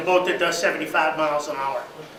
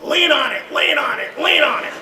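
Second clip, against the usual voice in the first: loud, high repeated urging yell; co-driver urging the driver on during the race; screaming; 8 semitones higher, 5 dB louder than usual. Retold or imitated. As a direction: yell it over your shoulder to go faster. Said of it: "screaming at me".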